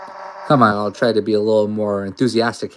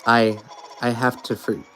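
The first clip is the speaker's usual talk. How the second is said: put-on uneasy, halting girl reading her fears; nervous Noelle. A lightly voiced scared girl, unsure and halting. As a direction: Noelle frets over Chris's strange voice.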